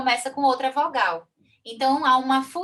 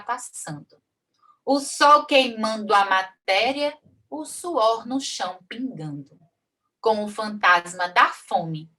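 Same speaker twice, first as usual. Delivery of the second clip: slow, measured cordel verse reading; poem recital. Shown as a demonstration. Teacher recites a cordel stanza to the class, slow and measured. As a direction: read the stanza slowly like a folk poet.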